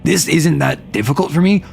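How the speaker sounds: usual speaking voice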